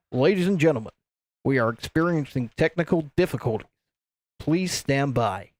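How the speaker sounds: theme park announcer. Acted. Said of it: "in sort of an American theme park announcer voice".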